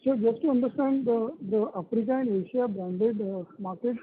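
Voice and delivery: muffled, as if through a hand over the mouth. Real, not acted. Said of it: "your voice is coming muffled".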